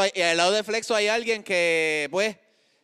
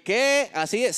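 mock surprise, higher on the first word; surprised reaction; 5 semitones higher, slower than usual. Host voicing the audience's reaction to the introduction, mock surprise. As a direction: play a listener caught off guard, lightly. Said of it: "vas a decir".

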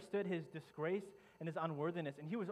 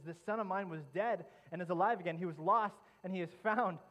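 joyful cry of a father; 3 semitones higher, 8 dB louder than usual. Acted. Father crying out as his lost son returns, loud joyful call. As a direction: call out the joy of a son come home. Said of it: "he's crying out".

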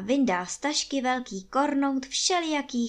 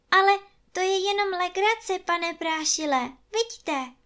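put-on much higher, coaxing girl's voice; a girl testing if it's a joke; tentative child asking for reassurance; hopeful girl; 9 semitones higher than usual. A narrator's reading. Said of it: "zkusila to Martička".

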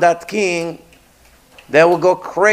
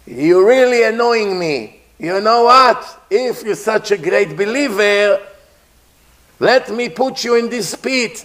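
king losing his temper at his servant; angry king; 3 semitones higher than usual. Acted. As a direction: scold him as a furious king. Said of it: "The king got angry".

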